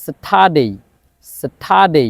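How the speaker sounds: স্যাটারডে with no R, said as sata-day; correct Saturday. Shown as a demonstration. Teacher giving correct স্যাটারডে for students to repeat. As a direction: model স্যাটারডে slowly for repeating. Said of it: "এটা হবে".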